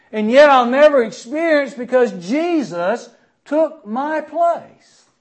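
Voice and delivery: voiced believer, rising in pitch and slowing at the wrath; grateful believer. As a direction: speak as the humbled believer, building in awe. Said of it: "when we say".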